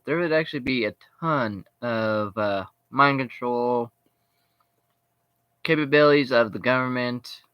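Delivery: talking while chewing gum; words around a wad of gum. Real, not acted. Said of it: "Sorry, I'm chewing gum here".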